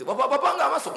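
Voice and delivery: mild laughing call. Retold or imitated. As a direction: call out, a touch puzzled. Preacher calling to staff outside.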